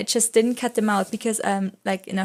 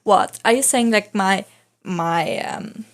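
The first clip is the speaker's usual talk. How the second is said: mock angry teacher. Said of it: "she get really mad at him".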